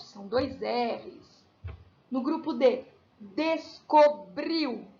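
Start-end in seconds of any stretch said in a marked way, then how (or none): 3.2-4.9 descobriu said very slowly, every syllable spelled out; drawn-out demo word. Shown as a demonstration. Teacher spells out a word for pupils, very slow. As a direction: drag out descobriu for the class. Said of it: "também é forte".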